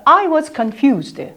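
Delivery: slow, careful I was confused; slow model sentence. Shown as a demonstration. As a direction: spell it out slowly for the class. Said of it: "해볼까요?".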